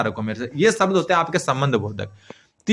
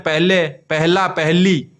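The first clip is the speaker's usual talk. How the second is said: slow word forms; much slower than usual. Shown as a demonstration. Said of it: "इसका लिंग बदल सकते हैं".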